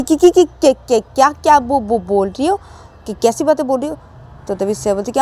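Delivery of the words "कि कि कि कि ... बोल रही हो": acted scandalised fluster; shocked stammer. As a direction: sputter in embarrassed shock. Shocked at friend's words.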